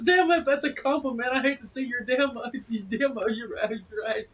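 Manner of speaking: loud, high-pitched imitation of friend; mock exasperation. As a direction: splutter it out in mock outrage. Retold exasperated friend in banter.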